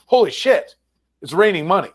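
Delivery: mock astonished delight, high-pitched; retold amazement. Guest quotes the team owner on his windfall, in high retold amazement. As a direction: imitate a windfall exclamation, voice jumping high.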